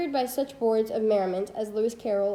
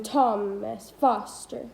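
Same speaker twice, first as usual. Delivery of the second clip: Thomas Foster, slowly, THOM-as FOS-ter; trochaic stress; much slower than usual. Shown as a demonstration. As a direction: lean on each first syllable in Thomas Foster. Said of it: "A stressed followed by an unstressed syllable".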